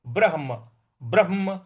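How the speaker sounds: ब्रह्म with a rolled र and the ह pressed before म; pronunciation demo. Shown as a demonstration. Teacher demonstrates the cluster, careful demo. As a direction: say ब्रह्म with both half letters. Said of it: "आधा र है और आधा ह लिखा हुआ है".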